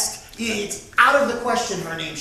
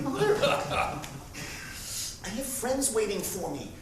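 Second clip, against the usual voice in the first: laughing; 6 dB quieter, much slower than usual. Retold or imitated. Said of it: "I said".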